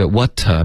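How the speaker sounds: "water" with a curled r on the end; r-colored ending. Shown as a demonstration. Teacher warning students off an r ending, r-colored. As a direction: end "water" in an r sound, the fault to avoid. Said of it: "别发water".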